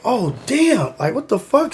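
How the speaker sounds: soft, high-pitched disbelief; retold shock. Retold shocked reaction to accident.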